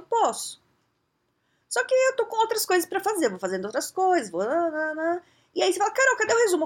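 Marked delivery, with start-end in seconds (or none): 0.0-5.2 much higher, carefree and offhand; breezy brush-off. Retold or imitated. Carol fingindo despreocupação. 5.9-6.6 much higher, louder demanding question; demanding boss. Retold or imitated. Chefe cobrando o resumo.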